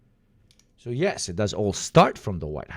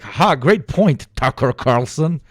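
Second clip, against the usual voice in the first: slow, loud, high sycophantic "ha, great point"; mocking fawning agreement; 4 semitones higher, 6 dB louder than usual. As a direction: ham up a fawning guest. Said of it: "Hugo, stop being like".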